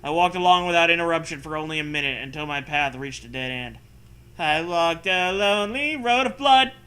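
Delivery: steady read-aloud narrator voice; story narration. Acted. Reads the story text aloud.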